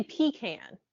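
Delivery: "pecan" with a long ee, then can; pee-can pronunciation. Shown as a demonstration. Disagreeing over how to say it, pee-can pronunciation. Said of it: "put the emphasis on the second syllable".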